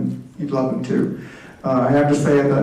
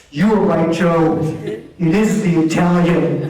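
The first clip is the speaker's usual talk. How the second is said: mock scream; 2 semitones higher, 5 dB louder, slower than usual. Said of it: "she screams across the restaurant again".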